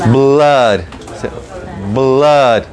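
"Blood" said with an A-like vowel, falling; blood with odd A. Shown as a demonstration. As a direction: model "Blood" as a drawn-out "blad". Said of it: "una A medio rara".

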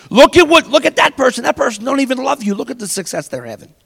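high, loud jealous jab; envy of someone doing better; envious outburst. Retold or imitated. Envious voice pointing at others.

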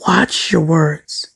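slow, whispered warning; hushed warning. Acted. Speaker to viewers, slowly whispering to watch their words. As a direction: whisper it slowly, like a secret caution.

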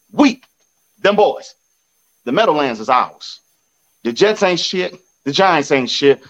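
ordinary delivery

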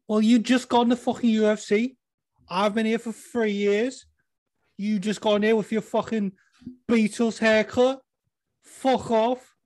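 high, loud indignant fighter impression; Darren Till. Mocking a newcomer on a three-way call, high agitated impression. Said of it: "That's Darren Till".

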